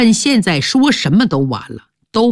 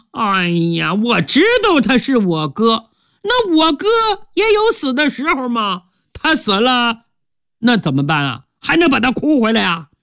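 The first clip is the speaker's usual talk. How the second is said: a shallow son brushing off grief; callous younger son; 2 semitones higher than usual. Acted. Son argues back.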